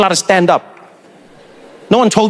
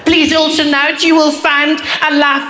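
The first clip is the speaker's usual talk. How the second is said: higher, slow announcer voice; flight attendant announcement; 7 semitones higher, slower than usual. Retold or imitated. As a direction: read it like cabin crew on the phone.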